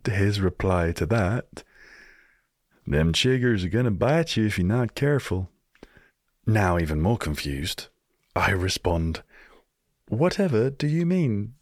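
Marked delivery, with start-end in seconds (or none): 2.8-5.5 imitating Midwest accent. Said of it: "in that accent". 10.1-11.5 higher, hammed-up prim English accent; posh British voice. British guest answers the old man in his poshest British accent. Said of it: "in my most non-racist British voice".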